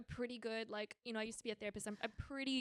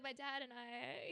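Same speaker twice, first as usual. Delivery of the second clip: put-on Italian accent; 5 dB quieter, slower than usual. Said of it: "saying this in his Italian".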